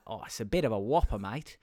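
mate-y Australian shopkeeper, a little low; Australian accent. Retold or imitated. Bakery man quoting the size to a customer, Australian accent. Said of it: "he was Australian".

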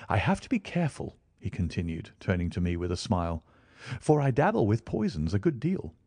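lightly voiced Holmes.

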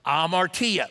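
"amartia" sounded out as ah-mar-TEE-ah; careful pronunciation. Shown as a demonstration. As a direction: say "amartia" clearly, stress on the TEE. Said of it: "it is pronounced amartia".

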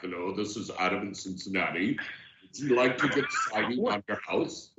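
quick, clipped salesman greeting; brisk and businesslike. Retold or imitated. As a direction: imitate a businesslike cold caller. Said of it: "You sound so businesslike".

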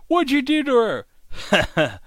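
high, loud furious demand; angry demand. Retold or imitated. Arthur confronts the siren about his mother, a loud furious demand. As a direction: rage at her for what she did.

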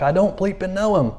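a hint of Peter denying at first. Peter to the servant girl, denying Jesus at first, lightly voiced. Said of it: "he cussed at the girl".

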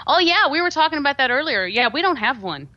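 put-on mild Canadian lilt, denying having an accent. Canadian client insists they have no accent, light Canadian accent. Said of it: "He's like".

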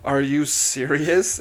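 mock incredulity with a touch of disgust; shocked and disgusted. Imitating a friend looking at the player, shocked and disgusted. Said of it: "equal parts shocked and disgusted".

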